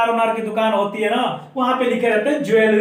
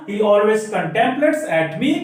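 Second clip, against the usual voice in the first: very slow, word by word; slow dictation; much slower than usual. Shown as a demonstration. Teacher dictating an example for students to copy. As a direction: dictate so students can write it down. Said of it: "आप सुन के लिख भी सकते हैं".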